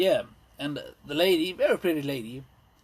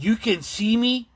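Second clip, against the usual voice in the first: mock ghost; 6 semitones higher, 5 dB louder, slower than usual. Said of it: "I was like".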